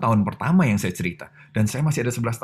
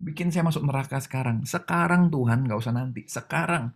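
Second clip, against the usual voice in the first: defiant challenge; 5 semitones higher than usual. Retold or imitated. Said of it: "saya sampai tantangin Tuhan".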